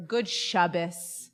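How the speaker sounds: slow, lingering Good Shabbos; savored greeting. Real, not acted. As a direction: draw it out to savor it. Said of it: "just gonna savor".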